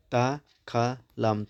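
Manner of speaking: दाखालाम stretched very slowly, syllable by syllable; drawn out slowly. Shown as a demonstration. Teacher splitting a word into syllables for students, slowly. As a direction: sound out दाखालाम one part at a time. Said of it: "दाखालामसै होदेरोबा मोनब्रै जाबायमोन".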